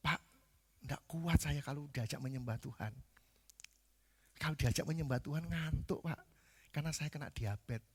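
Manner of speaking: soft mock excuse; keluhan pelan jemaat. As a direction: plead weakness to the pastor in a small voice. Voicing a member making excuses. (alasan lemah dengan suara pelan)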